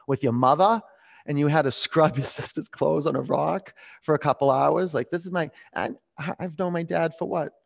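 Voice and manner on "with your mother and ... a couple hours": retold amazement, pitched up; incredulous, higher-pitched questioning; astonished reaction. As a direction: react in wonder at what you just heard. Acts out astonished reaction to dad.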